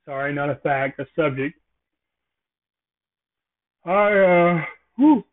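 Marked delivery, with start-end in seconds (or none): 3.8-5.2 yawning. Real, not acted. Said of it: "I could not stop yawning".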